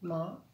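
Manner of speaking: "Ma" said alone as a separate beat; isolated syllable. Shown as a demonstration. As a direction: set "Ma" apart, then pause. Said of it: "première syllabe".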